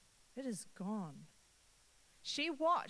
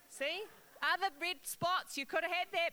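playful teasing; 7 semitones higher, 5 dB louder than usual. Real, not acted. Teasing the congregation about candy.

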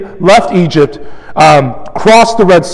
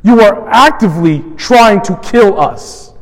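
accusing; 2 semitones higher than usual. Retold or imitated. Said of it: "increasing intensity and antagonism".

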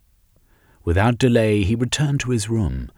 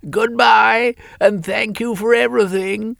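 high, loud sarcastic farewell; mocking son; 5 dB louder than usual. A narrator's reading. Son calling down a mocking goodbye to his mother. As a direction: call down with a sneer. Son's parting jab from airship.

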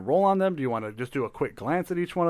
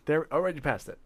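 whisper; 2 semitones higher than usual. Real, not acted. Scrolling past, muttered aside.

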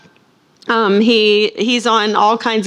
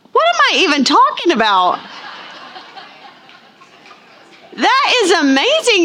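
much higher, delighted disbelief; higher, quick, amazed exclamation; surprised; 10 semitones higher than usual. Real, not acted. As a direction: leap up high in happy astonishment. Stunned at people already voted.

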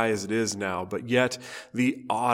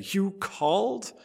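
short and curt, pitched higher; 8 semitones higher, 3 dB quieter than usual. A narrator's reading. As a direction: snap it out curtly. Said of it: "the boy asked curtly".

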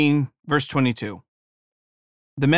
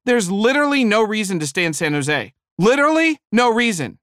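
eager husband; 7 semitones higher, 3 dB louder than usual. Retold or imitated. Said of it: "the man said".

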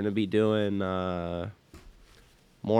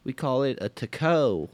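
higher mock Southern accent; 4 semitones higher than usual. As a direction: announce it in a put-on Southern accent. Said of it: "I don't know why we do Southern accents".

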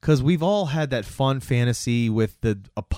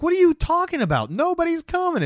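mocking, much higher voice; scoffing teen. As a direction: sneer it like a bratty teen. Sam mocks them waiting at the light.

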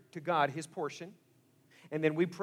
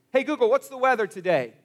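louder, higher voice to the speaker; calling to a device; 6 semitones higher, 9 dB louder than usual. Retold or imitated. Talking to a smart speaker.

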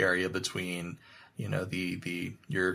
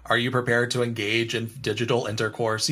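clinical. Shown as a demonstration.

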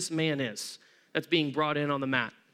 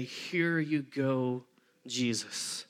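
quiet offering; 7 semitones lower, 6 dB quieter, much slower than usual. Retold or imitated. Friends hand man to Jesus.

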